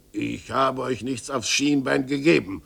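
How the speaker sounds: growled angrily. Acted. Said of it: "knurrte der Tischler ärgerlich".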